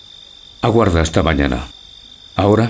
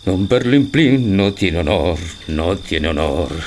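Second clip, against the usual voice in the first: resigned lament; slower than usual. Acted. Perlimplín mournfully repeating to himself that he has no honour. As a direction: let the repeat die away sadly.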